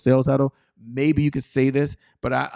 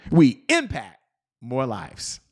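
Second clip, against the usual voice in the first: affirmation close; slower than usual. Shown as a demonstration. Coach ends the repeat-after-me statement, emphatic falling close. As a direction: hit "We impact", pause, let "more lives" fall. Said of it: "But just repeat after me".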